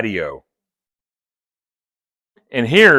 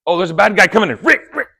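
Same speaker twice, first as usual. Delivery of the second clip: mock alarm; 6 semitones higher, much faster than usual. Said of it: "I'm like".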